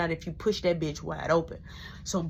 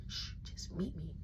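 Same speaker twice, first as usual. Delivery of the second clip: breathy hushing whisper so mama stays asleep; urgent whisper; 4 semitones lower, 18 dB quieter than usual. Retold or imitated. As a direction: shush him in a tight whisper. Whispering at night.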